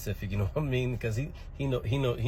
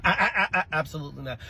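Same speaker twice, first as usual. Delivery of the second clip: stammering, higher panicked denial; flustered denial; 4 semitones higher than usual. Real, not acted. Teacher flustered denying he saw the student's mother. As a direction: splutter out a denial.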